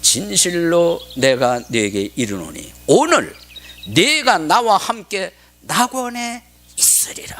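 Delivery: slow solemn pronouncement, rising high; Jesus. Acted. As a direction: declaim the promise slowly and grandly. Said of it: "예수님께서 그에게 이르시되". (느리고 엄숙하게 높여 선포)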